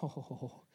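low, very soft groan; weary groan. Acted. Father interrupted at his coffee by an eager son, weary groan. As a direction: let out a soft, dismayed "oh".

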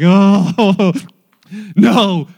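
loud, hammed-up groan of dismay. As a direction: react to disastrous news with a big mock groan. Retold reaction to leak news.

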